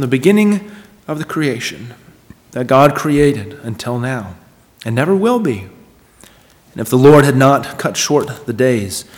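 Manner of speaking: measured public Bible reading, phrase by phrase; solemn scripture reading. Acted. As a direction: read it out to the congregation with weighty emphasis and pauses. Reads scripture aloud to congregation.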